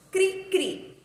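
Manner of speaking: high "cri, cri" chirps; cricket chirp imitation. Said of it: "palavras que representam som".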